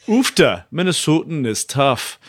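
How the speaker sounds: Minnesotan attempt slipping toward Irish; wobbly mock Minnesotan with an Irish tinge; Irish-tinged Minnesotan. Shown as a demonstration. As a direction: try Minnesotan, landing half Irish. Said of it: "that sounded Irish as well".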